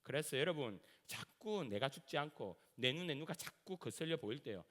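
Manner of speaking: ordinary delivery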